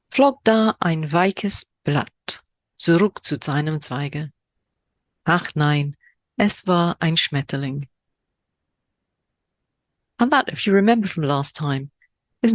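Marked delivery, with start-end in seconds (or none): 0.1-7.9 very slow, drawn-out recital; slower poem reading in German. Shown as a demonstration. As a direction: linger over every German word. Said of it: "my horrendous German accent".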